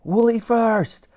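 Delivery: high, very slow shouted order; stretched high command. A narrator's reading. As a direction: direct the crew. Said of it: "shouted Elsie".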